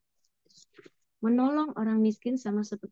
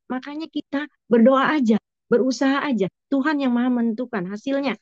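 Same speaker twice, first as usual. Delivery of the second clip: louder, projecting to the whole room; speaking up; 8 dB louder than usual. Real, not acted. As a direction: push the voice out so all can hear. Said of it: "Kurang tarik suaranya".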